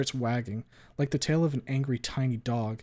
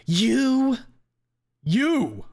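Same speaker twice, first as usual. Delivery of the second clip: much higher, loud shriek; furious shout; 12 semitones higher, 9 dB louder than usual. A narrator's reading. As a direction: scream it at her enemy. Trish enraged, repeating.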